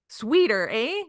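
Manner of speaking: put-on playful Canadian accent on "Sweeter, eh?" with a rising eh; lightly put-on Canadian accent with a tag-question eh; mock Canadian accent. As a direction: ham up a Canadian accent, leaning on the eh. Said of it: "You like my Canadian accent, eh?".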